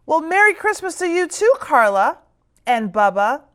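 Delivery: quick, high teasing greeting; a hint of a wry grandmother; Granny voice. Granny greets kids, gently chiding.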